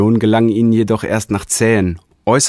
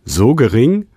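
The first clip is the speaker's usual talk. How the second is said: higher and louder, taken aback; astonished; 6 semitones higher, 5 dB louder than usual. Acted. Realigator hears the tiny chance, astonished. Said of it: "staunte der Realigator".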